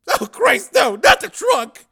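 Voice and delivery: high, loud, slow pleading wail; dreading moan. Acted. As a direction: wail in dismay, begging off. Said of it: "moaned Shelley".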